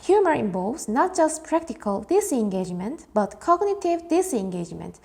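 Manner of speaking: reads "Humor involves" very slowly, word by word; slow reading. Shown as a demonstration. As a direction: read it out slow and deliberate for the class. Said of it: "해볼게요".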